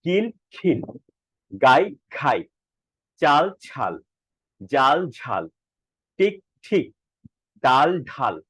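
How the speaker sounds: word pairs like কিল, খিল, unaspirated first, then with a puff of breath; paired practice words, a short pause after each pair; aspiration drill. Shown as a demonstration. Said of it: "এগুলো কিভাবে চর্চা করব".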